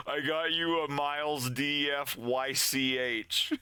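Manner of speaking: giggling through the words; laughing mid-sentence, pretend gift reveal. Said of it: "and just be like".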